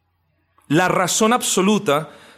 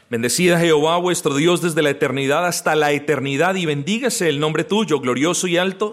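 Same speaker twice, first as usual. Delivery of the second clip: reads the verse aloud at a brisk pace; quick scripture reading. Shown as a demonstration. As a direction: run through the Bible verse quickly, as a reading. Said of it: "se los leo". (lectura rápida del versículo)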